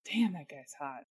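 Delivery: soft retold aside. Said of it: "I was like".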